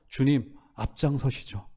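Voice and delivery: slow, soft-spoken prayer; humble confession. Shown as a demonstration. Pastor models the congregation's prayer, slow and soft. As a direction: say it slowly like a surrender. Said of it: "이렇게 고백하시는".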